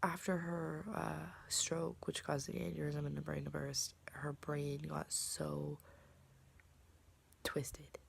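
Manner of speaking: whispering. Real, not acted. Hard topic, whispered.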